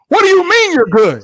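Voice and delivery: loud, high mock outrage; incredulous retort. Bride answering her husband's casual check-in, incredulous and indignant. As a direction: throw his words back in disbelief.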